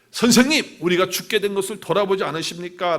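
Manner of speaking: urgent appeal, acted lightly; pleading disciple. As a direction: call out for help with some urgency. Acts out the disciples' panicked plea.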